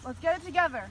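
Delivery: lightly voiced general rallying troops; rally the troops as their general; army general voice. General Uniqua addresses troops.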